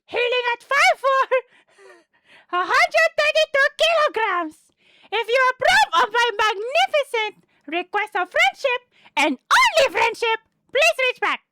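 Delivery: lightly voiced smug internet know-it-all; a hint of an arrogant troll reading his cringe text; Mort voice. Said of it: "doing the Mort voice".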